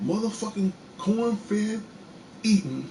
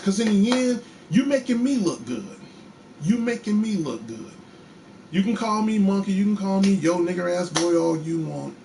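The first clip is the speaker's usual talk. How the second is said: defiant retort; 4 semitones higher, 3 dB louder than usual. Real, not acted. Defiant answer to slurs.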